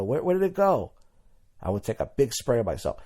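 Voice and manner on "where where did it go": much higher, baffled question; puzzled. Retold or imitated. Teen spraying cheap body spray, baffled high question. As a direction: look for the vanished smell, baffled. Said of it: "I go".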